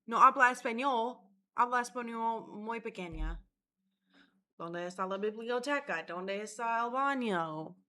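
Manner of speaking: hammed-up schoolbook Spanish accent; bad Spanish. Showing off the only Spanish she knows, bad Spanish accent. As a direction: rattle off classroom Spanish phrases badly. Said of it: "should have paid attention in fucking Spanish".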